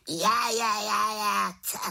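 high squawking bird voice; raven croak. A narrator's reading. Raven reacts to the botched rain spell, high squawking croak. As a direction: squawk in dismay like a talking raven. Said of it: "krákal havran".

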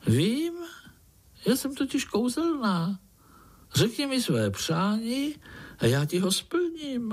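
magic golden fly. Acted. Golden fly offering the spider a wish, high and sweet. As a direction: promise a wish like a tiny fairy.

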